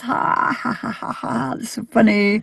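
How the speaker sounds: high mock belly laugh running into the words; imitated laughing fit. A singer laughing off the photographer's complaint, high mock laughing fit. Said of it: "he just dies laughing".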